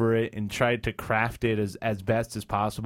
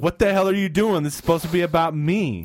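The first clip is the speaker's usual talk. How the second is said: mock outraged player; 5 semitones higher, 4 dB louder than usual. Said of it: "Neil going like".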